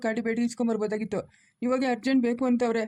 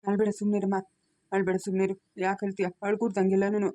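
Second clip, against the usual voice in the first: low, steady hushing of someone in tears; soothing; 3 semitones lower than usual. Acted. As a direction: gently tell her to stop crying. Grandfather soothing crying woman.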